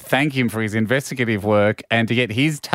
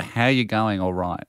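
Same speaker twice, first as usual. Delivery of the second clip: put-on Aussie accent. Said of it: "the claim is the".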